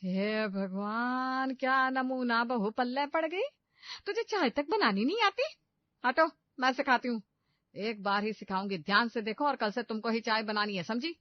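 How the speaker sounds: mother-in-law yelling at the clueless bride; angry scolding. A narrator's reading. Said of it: "गुस्से से चिल्लाते हुए कहती है".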